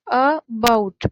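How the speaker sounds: "about" split in two, the "bout" forceful; stress on second syllable. Shown as a demonstration. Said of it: "ज़्यादा stress दे के बोल रहे हैं". ("about" को तोड़कर, "bout" पर ज़ोर)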